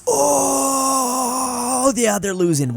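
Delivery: high, loud drawn-out oh, then easing down; way too excited. Real, not acted. Game player watching them lose, excited outburst. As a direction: cry out high and loud, really worked up. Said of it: "I'm getting way too excited".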